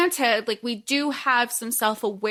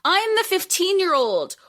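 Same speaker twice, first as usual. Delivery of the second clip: put-on exasperated teen; 4 semitones higher than usual. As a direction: plead as the only sane one. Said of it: "Kate will be like".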